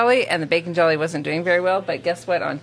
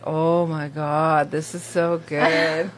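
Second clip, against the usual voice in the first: savoring diner; 2 semitones lower, much slower than usual. Retold or imitated. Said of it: "He's like".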